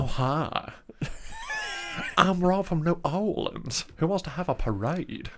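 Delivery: New Orleans accent after the friend asks for gravel; gravelly New Orleans accent. Shown as a demonstration. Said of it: "a little bit more gravel".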